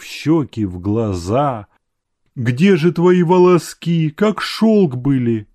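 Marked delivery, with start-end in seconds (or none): 2.3-5.5 through tears. A narrator's reading. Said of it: "приговаривала она сквозь слёзы".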